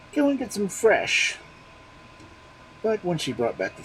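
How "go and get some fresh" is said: high, louder order; demanding husband. A narrator's reading. Husband ordering his wife, high and loud. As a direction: send her off sharply.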